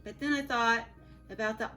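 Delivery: put-on reading a picture book aloud to children; storybook reading. A narrator's reading. Teacher reading Humpty Dumpty story to her class, storybook voice. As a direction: tell the story gently to your class.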